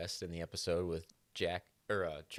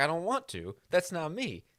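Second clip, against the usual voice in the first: acted-out, mad, heated, swooping delivery; 10 semitones higher, 4 dB louder than usual. Retelling a character's reply about burning the body: imitating someone getting mad. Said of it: "And then he gets mad".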